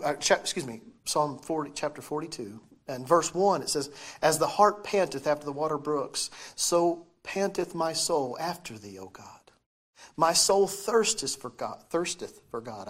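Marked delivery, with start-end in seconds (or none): 4.2-12.9 talking around braces; words slurred by braces. Real, not acted. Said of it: "I can't talk with braces".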